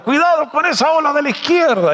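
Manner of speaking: high-pitched called-out warning; mock shouted warning. Tomás warns Pedro from the boat, high mock shout. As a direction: call out an urgent warning, high. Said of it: "Tomás le gritó desde el barco".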